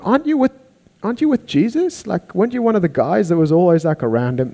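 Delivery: mock high voice, pressing question; high accusing questioner. People questioning Peter.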